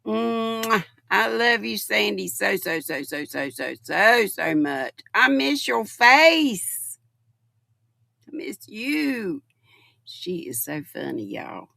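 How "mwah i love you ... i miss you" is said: shower her with love; affectionate. Real, not acted. Affectionate to friend in chat.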